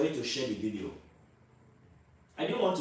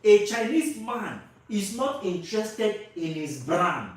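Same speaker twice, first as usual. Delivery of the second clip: louder, higher, slow and insistent; emphatic repeat; 5 semitones higher, 6 dB louder, slower than usual. Real, not acted. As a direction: drive the point home slowly and forcefully. Repeats point after asking for agreement.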